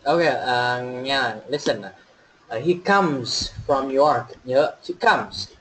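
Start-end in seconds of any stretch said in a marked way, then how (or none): 2.6-4.3 slow model sentence, "comes" ending in a buzzed Z; "comes" pronounced "kumz". Shown as a demonstration. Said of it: "chúng ta sẽ đọc âm Z". 5.0-5.5 slow "comes" ending in a voiced Z; "comes" pronounced "kumz". Shown as a demonstration. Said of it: "chúng ta sẽ đọc âm Z".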